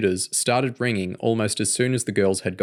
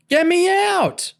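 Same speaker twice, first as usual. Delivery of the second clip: put-on high, slow child's scream; 5 dB louder, slower than usual. A narrator's reading. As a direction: scream it like a trapped little girl. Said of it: "Charlotte screamed".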